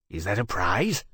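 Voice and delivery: mildly curious question; interested. A narrator's reading. Dragon peering at the small golden thing, interested. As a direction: ask with a touch of curiosity. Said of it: "Temeraire asked in interest".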